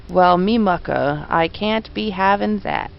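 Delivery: slow, lightly voiced Cockney copper; a hint of a London bobby refusing; Cockney policeman. Policeman voiced in game dialogue.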